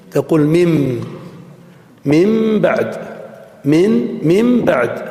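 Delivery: من بعد said "mim baʕd"; n turned to m. Shown as a demonstration. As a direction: turn the n of من into m before بعد. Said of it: "يجب أن تقلب هذه النون إلى ميم".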